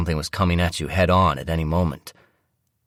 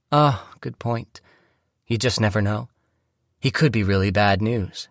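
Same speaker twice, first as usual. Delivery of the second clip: agreeable wife; 5 semitones higher than usual. Acted. Wife conceding the point to her husband, agreeable. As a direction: play the wife conceding, pitched up. Wife's voice in story narration.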